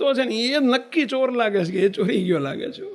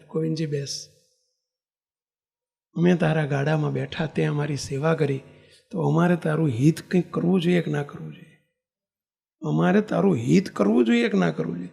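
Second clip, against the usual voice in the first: calm divine voice; 4 semitones lower than usual. Retold or imitated. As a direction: speak gently as the Lord. Maharaj speaks, lower voice.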